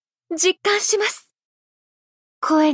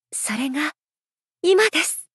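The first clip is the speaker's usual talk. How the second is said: whisper. Acted. Intimate whisper before reveal.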